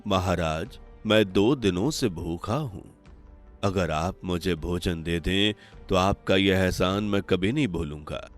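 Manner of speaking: softly spoken begging of a hungry holy man; humble plea. Acted. Hungry sadhu asks the king for food, humble and soft. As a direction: ask softly, as one weak with hunger.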